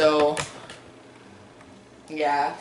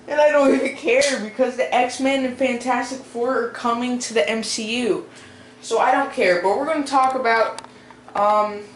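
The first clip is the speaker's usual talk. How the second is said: higher, louder video-opening voice; 5 semitones higher, 4 dB louder than usual. Real, not acted. Vlogger greeting viewers and introducing canceled movies, high voice. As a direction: pitch it up high without meaning to. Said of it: "my voice is high".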